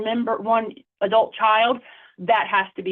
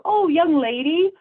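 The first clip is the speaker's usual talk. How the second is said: patronizing; 7 semitones higher than usual. Retold or imitated. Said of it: "when you say to someone who's older".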